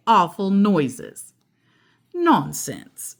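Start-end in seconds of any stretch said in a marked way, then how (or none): 2.1-3.2 calm answer. Acted. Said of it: "answered calmly".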